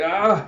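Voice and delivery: high, loud acted wail; mock crying wail. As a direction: cry out in hammed-up anguish. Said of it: "Zapan just starts crying".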